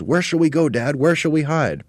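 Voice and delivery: very high, loud little-monkey cry; joyful cry. Acted. Two little monkeys crying out as they escape. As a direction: shout with joy.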